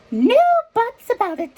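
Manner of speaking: high, loud royal shout; shouting king. Acted. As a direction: bellow it like an angry king. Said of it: "shouted the king".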